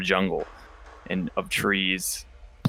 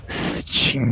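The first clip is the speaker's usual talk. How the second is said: breathy whisper right by the ear; 3 semitones higher than usual. Acted. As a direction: breathe the name into his ear. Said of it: "puts his mouth right beside your ear".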